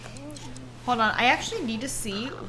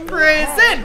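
hammed-up shout, pitched up; mock outrage; 5 semitones higher, 9 dB louder than usual. Streamer repeating the game's threat, hammed-up shout. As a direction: shout it in fake shock. Echoing game dialogue again.

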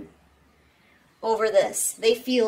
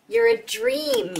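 "You're a dream" sung out much higher and slow; dreamy high echo; 11 semitones higher, slower than usual. Real, not acted. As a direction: float "dream" up high, slowly. Echoed with soaring pitch.

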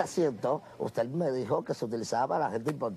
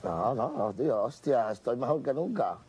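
mock Spain Spanish accent; 3 semitones lower than usual. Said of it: "estoy practicando el acento español".

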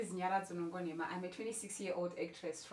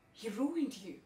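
bitter accusation. Acted. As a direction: stress RUINED, voice rising on it. Monologue, repeated line, first take voiced.

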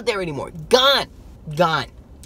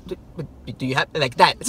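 stuttering; 3 semitones lower than usual. Retold or imitated. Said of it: "Stuttering and everything".

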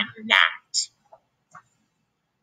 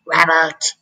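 surprised shout; 3 semitones higher, 4 dB louder than usual. A narrator's reading.

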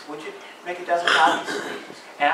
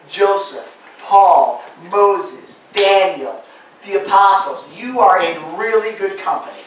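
full-force preaching; 3 semitones higher, 10 dB louder than usual. Acted. Pastor urging the discouraged congregation, preaching at full force. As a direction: thunder it out to the pews.

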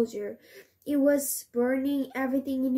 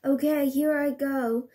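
worried voice; 3 semitones higher, 3 dB louder than usual. Acted. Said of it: "in a worried voice".

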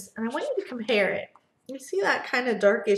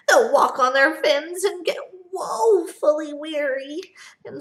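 Lorax lament; 5 semitones higher, 3 dB louder than usual. Acted. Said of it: "Lorax continues".

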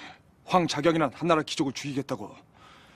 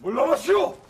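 shouting; 10 semitones higher, 3 dB louder than usual. Acted. Facing down the guards.

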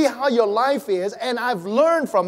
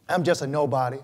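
mock mopey humility; 7 semitones lower, faster than usual. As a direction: mumble it like someone who thinks they're nobody. Mocking a falsely humble churchgoer.

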